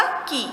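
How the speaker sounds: की with the long ī held and pressed; stress on long ī. Shown as a demonstration. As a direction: lean on the drawn-out ई in की. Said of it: "जोर लगाकर बोलते हैं". (की में बड़ी ई पर जोर)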